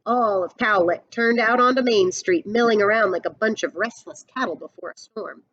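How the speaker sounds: put-on storyteller reading a picture book to kids; read-aloud storybook voice; story narration. A narrator's reading. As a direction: paint the western showdown for the class.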